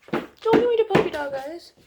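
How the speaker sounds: teasing the dog. Real, not acted.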